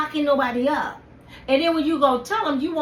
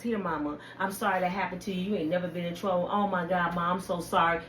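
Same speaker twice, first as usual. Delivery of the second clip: mock sweet daughter; 6 semitones lower, 7 dB quieter than usual. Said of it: "what daughter never said".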